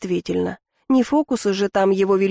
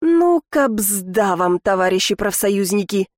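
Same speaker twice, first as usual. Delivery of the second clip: sinister drawl. Acted. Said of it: "зловеще протянула я".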